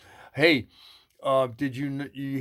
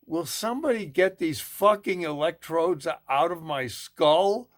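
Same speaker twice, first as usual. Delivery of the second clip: exasperated inner voice; 5 semitones higher than usual. Retold or imitated. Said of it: "the man's first thoughts were".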